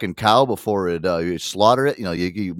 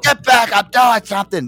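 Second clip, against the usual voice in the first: higher, louder mock yell; imitating dad yelling; 10 semitones higher, 5 dB louder than usual. Son imitating his father shooing him, mock yell. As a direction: shoo the kid off like an annoyed dad. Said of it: "he's like".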